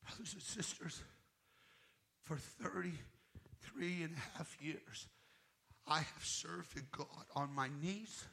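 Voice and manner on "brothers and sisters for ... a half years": hushed address. Real, not acted.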